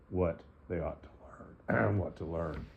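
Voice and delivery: hoarse, failing voice; a slightly hoarse, strained voice; losing voice. Real, not acted. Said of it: "I'm losing my voice just a little bit".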